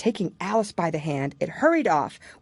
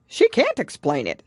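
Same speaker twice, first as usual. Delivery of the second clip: hasty Gryphon; 5 semitones higher, 5 dB louder than usual. Acted. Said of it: "said the Gryphon hastily".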